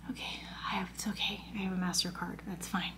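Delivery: sigh, then whispered resignation; defeated whisper. Retold or imitated. Customer giving in after the card refusal, defeated whisper. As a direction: give in under your breath. Defeated under-breath reply.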